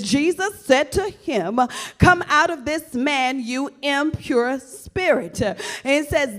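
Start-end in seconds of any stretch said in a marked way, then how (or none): 2.0-5.4 slow solemn command. Shown as a demonstration. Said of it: "come on now, catch this".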